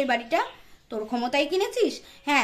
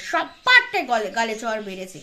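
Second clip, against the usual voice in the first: ordinary talk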